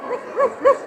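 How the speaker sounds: quick, high pretend barks; softly ruff like a dog; high little dog woofs; Dalmatian barking. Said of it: "what's the sound a Dalmatian is going to make".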